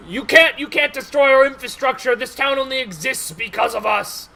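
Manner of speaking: acted yell, starting loud and easing off; dwarves yelling back. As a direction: argue back loudly, then let it drop. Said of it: "They're yelling back and forth".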